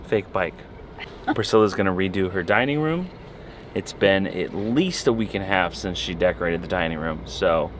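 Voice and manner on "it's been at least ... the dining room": joking sarcasm with a lift on "least"; sarcastic, just kidding. Real, not acted. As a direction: tease with a sarcastic understatement. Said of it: "Why are you being so sarcastic?".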